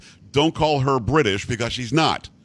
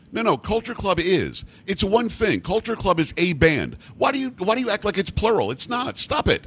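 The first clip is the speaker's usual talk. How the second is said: mock exasperation; 7 semitones higher than usual. Mock exasperated correction of British grammar.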